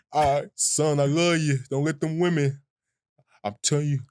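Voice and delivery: lightly voiced old man; a hint of a wise old father. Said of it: "I'm just getting that old man voice".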